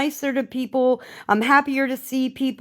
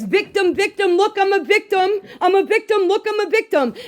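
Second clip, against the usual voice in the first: higher mocking victim voice; mock whine; 8 semitones higher, faster than usual. Mocking Sunshine online, higher and whiny. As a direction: parrot her self-pity.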